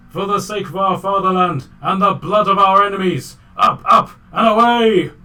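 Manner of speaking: put-on high, loud battle cry in hammy Russian accent; bad Russian accent. Reindeer sending the herd to attack, shouting in Russian accent. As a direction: build to a shouted charge, mock Russian. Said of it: "in the worst Russian accent".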